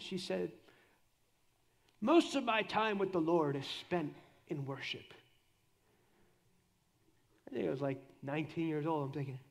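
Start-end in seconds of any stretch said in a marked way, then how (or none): 2.0-5.1 slow, lightly imitated South African accent; slow down with a hint of South African. Preacher quotes a conference speaker, light South African accent. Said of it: "in her South African accent".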